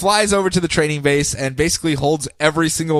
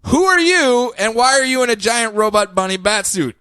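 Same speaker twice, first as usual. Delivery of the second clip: mock high voice; 6 semitones higher than usual. Jim Bats voiced, high.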